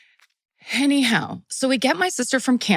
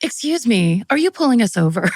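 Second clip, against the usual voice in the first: polite mom voice; 4 semitones higher, 3 dB louder than usual. Retold or imitated. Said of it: "give people different voices".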